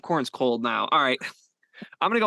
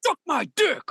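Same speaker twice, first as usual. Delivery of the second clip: taunting shout; 12 semitones higher than usual. Acted. Taunting shout after lift.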